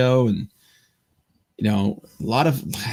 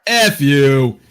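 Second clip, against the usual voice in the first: mild mock yell; 3 semitones higher, 6 dB louder than usual. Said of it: "I just yelled out".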